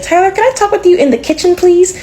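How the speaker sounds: high, fast, insistent mother. Retold or imitated. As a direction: pull him aside, clipped and urgent. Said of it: "she would be like".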